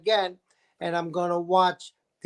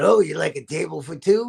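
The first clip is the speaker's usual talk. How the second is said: lowered lost-voice imitation; lost voice, retold; 4 semitones lower than usual. Waiter to Harvey Fierstein at restaurant, lightly imitated lost voice. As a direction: answer in a lowered, voice-gone croak. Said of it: "I had lost my voice".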